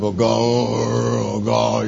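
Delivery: slow, low, drawn-out moan to God; hammed-up wail, stretched long; mock lament. Acts his lament to God.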